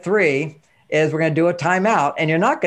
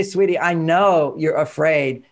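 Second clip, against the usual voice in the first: gentle; slower than usual. Shown as a demonstration. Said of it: "I wanna role model this one".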